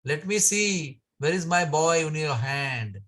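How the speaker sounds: sarcastic. Acted. Yashoda mocking the complaining gopi, sarcastic. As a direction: tease her with sarcastic disbelief. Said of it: "with great, you know, sarcasm".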